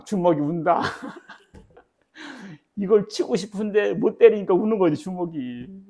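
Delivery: preacher laughing about wanting to punch someone. Real, not acted. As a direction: laugh at yourself while saying it. Amused retelling of own anger.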